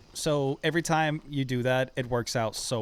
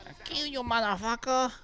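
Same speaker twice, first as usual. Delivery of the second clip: yelling; 10 semitones higher than usual. Real, not acted. Sudden shout in firefight.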